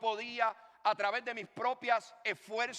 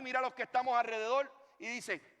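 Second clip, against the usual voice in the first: ordinary delivery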